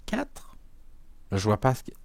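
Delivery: a startled little whispered "four?"; surprised whisper. Real, not acted. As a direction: whisper it in disbelief. Puzzled the oracle wants four cards.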